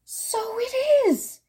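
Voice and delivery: put-on delighted old grandmother. A narrator's reading. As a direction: greet her with drawn-out joy.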